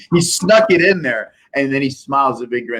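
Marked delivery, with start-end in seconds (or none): 0.1-1.3 high, laughing through the words. Real, not acted. Speaker recounts the sneaky insult, laughing. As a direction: tell it while still cracking up. Laughing at his own anecdote.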